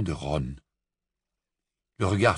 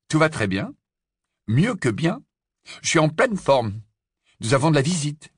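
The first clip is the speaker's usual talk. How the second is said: higher, upbeat reassurance; enjoué; 5 semitones higher than usual. Acted. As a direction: announce good news with lifted pitch. Harry rassure, annonce une visite. (ton enjoué, voix plus haute)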